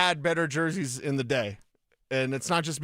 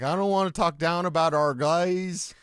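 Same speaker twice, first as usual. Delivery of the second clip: light Canadian accent impression. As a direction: do the coach in a mild Canadian accent. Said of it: "That's my Canadian accent".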